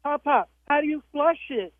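put-on high, innocent toddler question; little girl voice. Grandma voices granddaughter asking how to flush, high pitched. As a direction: ask it high and sweet like a small child. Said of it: "she goes".

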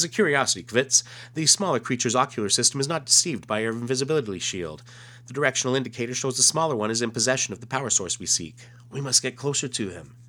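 lightly voiced alien officer giving orders; alien commander. Reads alien's comic dialogue.

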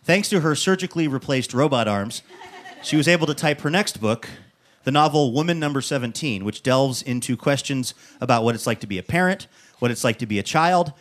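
measured announcer read building to the guest's name; presenter's stage intro; show host introduction. Acted. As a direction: introduce the guest to a live audience, lifting at the end.

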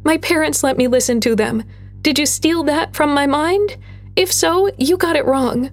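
put-on girl angrily correcting the creature; spitting retort. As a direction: snap back at the monster in defiance. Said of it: "Gwen spat".

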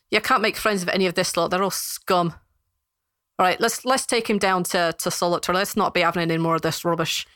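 scornful, dismissive dwarf; lightly voiced contemptuous guard. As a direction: dismiss them all as a hard-nosed guard.

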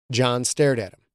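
plain reading voice

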